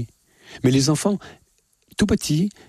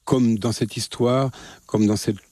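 ordinary talk

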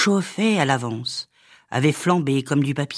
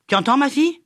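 put-on old witch; 10 semitones higher, much faster than usual. A narrator's reading. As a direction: press it on her like a bossy old witch. Old witch instructs Madeleine.

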